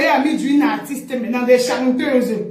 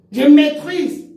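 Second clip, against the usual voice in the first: louder, higher mocking je maîtrise; mock boast; 3 semitones higher, 4 dB louder, much slower than usual. Mocking a rival's boast to viewers. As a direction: parrot her boast je maîtrise. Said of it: "Elle a dit, je maîtrise".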